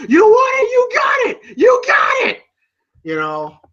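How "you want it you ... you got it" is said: loud, very high mock yell; hammed-up enraged challenge, yelled; Rocky. Boxer angered by flirting with Adrian, mock yell. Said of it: "you hear him going".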